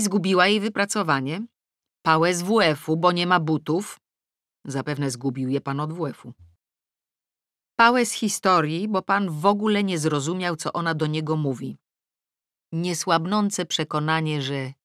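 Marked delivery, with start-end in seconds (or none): none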